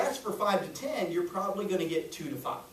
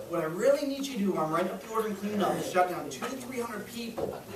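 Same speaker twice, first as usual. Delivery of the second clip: deadpan serious ask; 2 semitones higher than usual. Shown as a demonstration. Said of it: "timing and voice inflection if you wanna use it".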